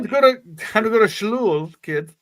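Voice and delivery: mom voice. Pretend. Mother calling kids.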